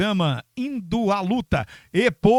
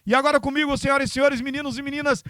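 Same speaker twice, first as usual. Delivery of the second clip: higher, booming MC announcement; grand entrance announcement; 7 semitones higher, much faster than usual. Acted. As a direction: announce the star like a ringmaster. Presenting the guest.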